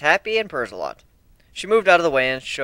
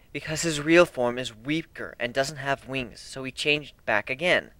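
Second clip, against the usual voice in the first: slow, flat-toned deadpan; 4 dB quieter than usual. Acted. Answering the ponies' doubt, slow deadpan. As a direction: state the absurd as plain fact. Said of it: "Nadine deadpanned".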